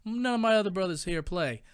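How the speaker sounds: surprisingly high, eager voice from a big tough guy; gangster guy, gushing. Retold or imitated. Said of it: "And the guy's like".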